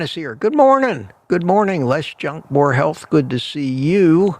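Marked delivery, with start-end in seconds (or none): 0.3-1.9 cheery greeting. Real, not acted. Greets chat viewer brightly.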